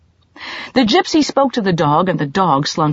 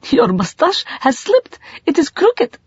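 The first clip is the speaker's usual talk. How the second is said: put-on higher, lightly amused girl; 12 semitones higher than usual. A narrator's reading. Girl noticing his fake mustache, lightly amused. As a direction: tease him gently, a touch of laughter. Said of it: "suddenly laughed".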